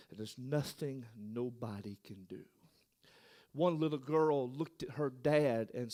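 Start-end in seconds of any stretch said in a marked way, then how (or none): 0.1-2.5 soft, breathless whisper; hushed whisper. Acted. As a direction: drop to a whisper of grief. Hushed moment about sick children.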